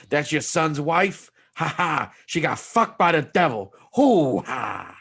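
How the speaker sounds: a slow, hammed-up Pacino devil gloating; lightly voiced Pacino as the devil, savouring each word. Mocking a friend by doing the devil in a loose Pacino voice. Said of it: "the speaker's Al Pacino".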